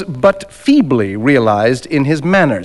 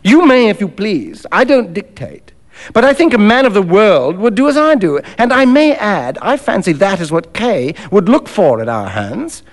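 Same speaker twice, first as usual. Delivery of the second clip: lightly voiced man of the world, pitched up; understated cynical persuasion; Macfarlane, cool and worldly; 3 semitones higher than usual. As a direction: reason it out with cool assurance.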